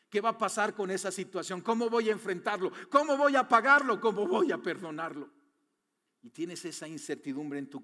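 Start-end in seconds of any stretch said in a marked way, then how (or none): 2.9-5.3 anxious outburst. Shown as a demonstration. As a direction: let the worry burst out on "¿Cómo voy a pagarlo?". Repeated rhetorical worry questions.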